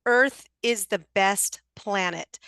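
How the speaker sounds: slow, deliberate; deliberate delivery. Shown as a demonstration. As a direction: give each word weight, unhurried. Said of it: "and he delivered it like that".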